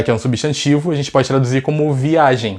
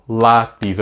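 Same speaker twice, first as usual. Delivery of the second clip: LÁPIS broken into LÁ and PIS; two separate beats on Lápis; split into syllables; 2 semitones lower than usual. Shown as a demonstration. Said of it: "A gente separa a sílaba".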